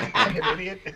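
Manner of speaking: half-laugh the insult out; laughing mock insult. Imagining yelling at him while driving by, laughing. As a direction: insult spoken through laughter. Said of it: "I'm, like".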